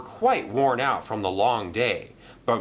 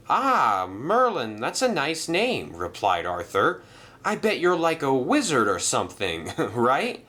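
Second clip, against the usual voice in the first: higher, quick friendly engine with a chuckle; friendly engine Arthur; 5 semitones higher than usual. Acted. Arthur joking to Merlin, higher and friendly. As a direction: tease him kindly about being a wizard.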